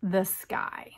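hushed whispered reveal; breathy storybook whisper. Acted. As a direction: whisper it like a secret to a child. Hushed reveal in read-aloud.

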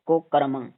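ਕੁਕਰਮੰ as "ko, karamang"; tiny halt inside ਕੁਕਰਮੰ; slight pause after "ko". Shown as a demonstration. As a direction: break ਕੁਕਰਮੰ briefly after its first syllable. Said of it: "ਕੋ ਤੋਂ ਥੋੜ੍ਹਾ ਕੁ ਰੁਕ".

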